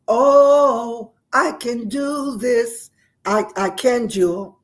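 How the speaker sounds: loud, drawn-out rallying cry; a half-done bellow of a war cry, then easing off. Retold or imitated. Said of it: "I began to just bellow out".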